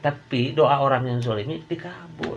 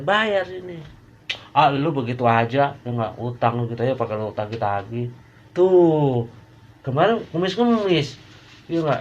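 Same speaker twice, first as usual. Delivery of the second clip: higher, louder, fed-up complaining creditor; wronged lender; 4 semitones higher, 4 dB louder than usual. Acted. Lender scolding a debtor who won't pay, exasperated higher rant. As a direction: rant like someone owed money for weeks. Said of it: "padahal dia lihat begini".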